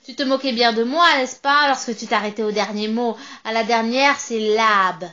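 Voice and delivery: loud, triumphant witch voice with a cackle; gloating witch. Acted. Witch gloating over the trapped narrator, loud and cackling.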